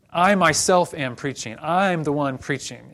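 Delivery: "I" punched and held, emphatic; stress on I. Shown as a demonstration. Preacher showing Hebrew emphatic pronoun, heavy stress on "I". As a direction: lean hard on "I myself" and "I'm".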